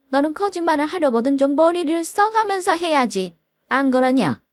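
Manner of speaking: mocking mother-in-law. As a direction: needle her with scornful questions.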